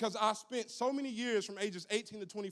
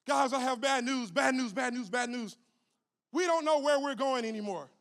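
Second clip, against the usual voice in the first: raised, urgent flight attendant breaking bad news; panicked flight attendant; 4 semitones higher, 4 dB louder than usual. Flight attendant telling passengers they're lost, alarmed. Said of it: "a flight attendant comes up and goes".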